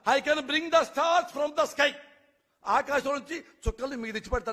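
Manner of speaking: slow, high, mock-grand politician's vow; sarcastic imitation of a boastful leader; mocking grand promise. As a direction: ham up the empty promise, drawn out. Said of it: "అంటాడు వీడు".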